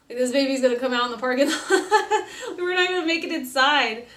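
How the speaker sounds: amused mock alarm; exasperated retold protest. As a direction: protest half-laughing, as if retelling your own panic. Protesting walk while in labor.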